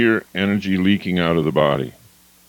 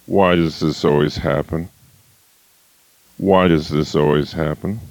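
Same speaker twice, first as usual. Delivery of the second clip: lower, deflated complaining voice; whiny victim voice; 5 semitones lower than usual. Shown as a demonstration. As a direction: sound helpless and put upon. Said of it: "The victim".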